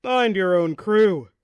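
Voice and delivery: slow hollered retort; hollering. A narrator's reading. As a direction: holler back across the water. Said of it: "the other skipper hollers back".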